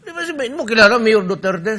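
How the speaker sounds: high, laughing question; guard's words retold while laughing; laughing retelling. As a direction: quote through laughter. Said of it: "Sabi pa yung gwardiya".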